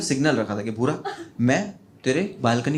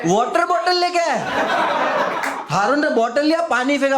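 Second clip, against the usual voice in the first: cracking up at the water bottle detail; laughing punchline; 11 semitones higher than usual. Real, not acted. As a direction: squeal the line through laughter.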